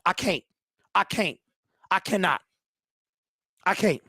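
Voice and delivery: exhausted, giving up; defeated. Real, not acted. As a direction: trail off, drained after yelling. Gives up after the rant.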